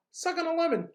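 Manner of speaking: high gasp, lips puckered; sour gasp. Shown as a demonstration. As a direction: gasp as if tasting lemon. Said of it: "match my face".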